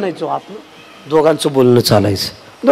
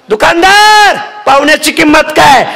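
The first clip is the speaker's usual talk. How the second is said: calling out; 11 semitones higher than usual. Acted. Villager calls out to shopkeeper.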